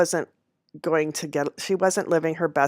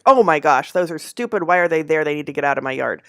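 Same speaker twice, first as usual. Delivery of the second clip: voicing the pissed-off dog; 4 dB louder than usual. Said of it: "She was pissed".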